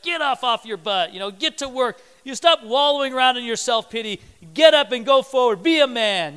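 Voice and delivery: tough-love father giving orders; forceful imitation of a commanding dad; exhorting dad. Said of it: "He's exhorting".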